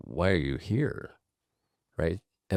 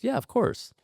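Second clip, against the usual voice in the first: knowing sarcasm. Retold or imitated. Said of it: "She goes".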